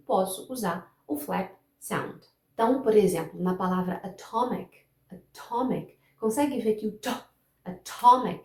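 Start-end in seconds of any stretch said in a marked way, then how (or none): 4.0-6.0 "atomic" with a firm T on the stressed middle syllable; crisp T in "atomic", stress on TOM; stressed, unflapped T. Shown as a demonstration. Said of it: "a sílaba que eu vou dar ênfase". 6.9-8.4 "atomic" with TO punched and a firm T; strong stop T opening the stressed syllable of "atomic"; stress on second syllable. Shown as a demonstration. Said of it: "é a sílaba pra qual eu dou ênfase".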